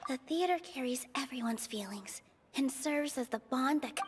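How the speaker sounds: whispered, as if thinking to herself; inner thought whisper. Acted. Nilou thinking through her answer, in a whisper. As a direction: murmur it under your breath like a private thought.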